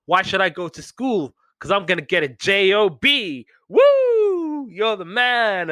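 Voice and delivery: hammed-up kid's cheering; excited little kid. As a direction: gush like a young fan, ending in a whoop. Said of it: "the little kid's like".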